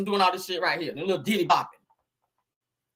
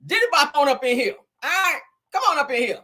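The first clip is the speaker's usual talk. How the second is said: mock seductive inmate. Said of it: "Big Bubba gonna be laid up on that cot over there and say".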